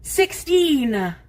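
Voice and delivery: sharp, startled cry of the number; stunned reading of the meter; shocked exclaim. Real, not acted. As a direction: blurt it out in disbelief. Shocked at blood sugar reading.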